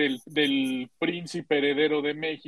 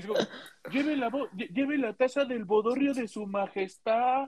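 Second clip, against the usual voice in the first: street vendor cry; 5 semitones higher, 4 dB quieter, much slower than usual. Retold or imitated. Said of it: "Le dirían".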